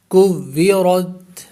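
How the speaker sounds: کورت recited slowly with a full heavy a and rounded lips on waw; tajweed recitation. Shown as a demonstration. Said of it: "آ کو پر کر کے پڑھیں گے".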